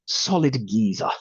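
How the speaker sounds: a light, deliberately poor Cockney twang on solid geezer; sketching the spirit as a London geezer in a mock Cockney accent; bad London geezer accent. Medium mimicking the late father as a solid geezer, mock Cockney accent. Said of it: "the most inaccurate accent, tone, and vernacular".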